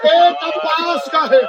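declaimed Urdu majlis oratory; majlis lament preaching. Real, not acted. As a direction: preach the martyrs' grief to a crowd.

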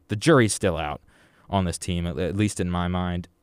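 wheezy voice, short of breath; talking breathless through a mask. Real, not acted. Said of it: "I lose my breath, and it's hard to talk".

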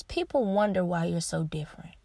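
unvoiced, hushed aside; whisper. Real, not acted. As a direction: breathe it out under your breath. Whispered aside about being different.

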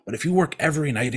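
lightly voiced Santa giving friendly advice; Santa Claus. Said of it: "Santa's like".

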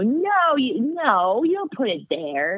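high-starting toddler protest, hint of Scottish accent; little Scottish girl. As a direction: imitate a small child with a Scottish lilt. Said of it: "she has a little Scottish accent".

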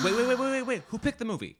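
hammed-up double take at the pick; mock disbelief. Mock outrage over movie pick.

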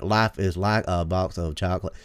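badly faked Southern accent; Tom Hanks. Mocking Tom Hanks as Forrest Gump, bad Southern accent. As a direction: lightly imitate an unconvincing Southern accent. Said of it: "really bad at faking a southern accent".

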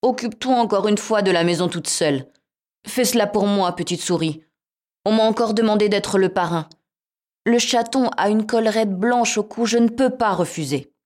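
cat voice. Acted. Cat voiced in fairy tale.

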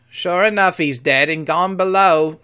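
a scared seaman talking of ghosts; loud pirate voice, spooked; frightened pirate. Acted. Bandaged pirate speaks.

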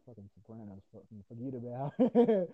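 hammed-up New Jersey mobster accent, slow and drawn out; mock Sopranos New Jersey wiseguy. Podcaster jokingly doing a Jersey Sopranos bit, New Jersey accent. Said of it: "not everyone from Jersey talks like that".

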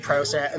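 "process" with a long O, as PRO-cess; British-style pronunciation. Shown as a demonstration. Host showing words from his English grandmother, long-O "process". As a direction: round the first vowel of "process" into a long O. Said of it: "I grew up saying the words like process".

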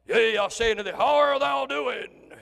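mock pulpit boom; booming preacher voice. Shown as a demonstration. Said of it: "I don't have my F M stereo voice".

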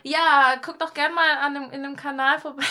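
overdriven mic, loud YouTuber plug; peaking mic distortion; clipping distorted mic. Real, not acted. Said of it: "Und damit haben wir wieder das Mikro übersteuert".

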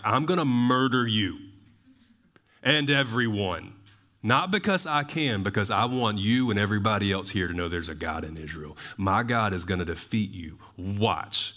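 acted bold declaration, settling after an emphatic start; lightly dramatized fearless challenge; confident David. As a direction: declare it to your foe with total assurance. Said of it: "You hear the confidence in the Lord?".

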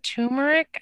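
"turmeric" said as TOO-muh-rick; pronunciation variant. Shown as a demonstration. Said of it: "I think".

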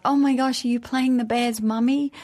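put-on excited kids. Her children asking about her role, excited and high. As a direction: gush like a thrilled child. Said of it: "And then they're like".

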